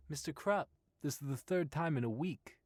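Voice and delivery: exasperated. A narrator's reading. Employee complains to boss.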